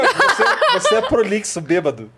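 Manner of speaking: teasing laugh. Real, not acted.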